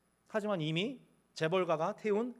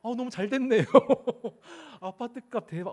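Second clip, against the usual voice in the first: giddy, laughing through the words; gleeful laughing; 4 semitones higher, 5 dB louder than usual. Retold or imitated. Preacher teasing the congregation, delighted and laughing. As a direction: chuckle as if counting the money. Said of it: "막 그러셔서요, 이렇게".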